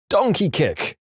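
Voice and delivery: high-pitched sudden exclamation; sudden shout. A narrator's reading. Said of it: "suddenly shouted".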